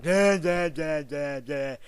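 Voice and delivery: loud, goofy mock blabber that fades out; sing-song da da da drowning out the other guy; mocking babble. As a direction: parody someone talking as meaningless noise. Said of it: "he's like ... trying to be funny".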